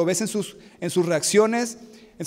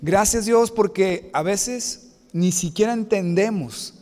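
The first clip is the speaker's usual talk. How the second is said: closing prayer; 2 semitones lower than usual. Acted. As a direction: pray to God for the congregation, slowing and fading. Closing prayer after "Vamos a orar. (oración pastoral sentida que se apaga al final)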